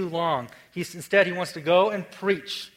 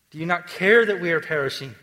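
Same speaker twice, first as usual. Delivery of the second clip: a touch of sarcasm, louder and blunt; blunt, sarcastic; 5 dB louder than usual. Retold or imitated. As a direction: throw it at him, honest and a little snide. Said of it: "it's honest, it's blunt, it's a little sarcastic".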